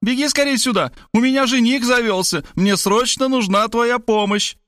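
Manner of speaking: very high, excited summons; mock yell, pitched right up; delighted cry. A narrator's reading. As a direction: call her over in high delight. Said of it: "восторженно закричала она".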